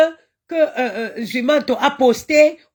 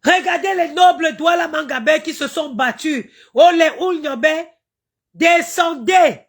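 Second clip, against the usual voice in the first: calling the ancestors. Real, not acted. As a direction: cry out to the ancestors to come down.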